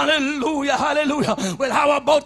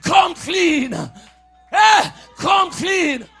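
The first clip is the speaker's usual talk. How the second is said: shouted prayer. Acted. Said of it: "Tell God".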